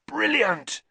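calling out hoarsely, high. A narrator's reading. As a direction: shout it after her, hoarse. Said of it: "he called hoarsely".

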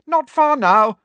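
high, loud call; shouting. A narrator's reading. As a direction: shout back to someone behind you. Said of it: "shouted Hermione".

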